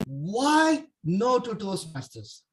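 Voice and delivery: slow, drawn-out opening question; slow intro. Shown as a demonstration. Speaker opens his sample speech slowly to the audience. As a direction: stretch out "why no to Toastmasters" slowly. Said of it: "starting with my intro".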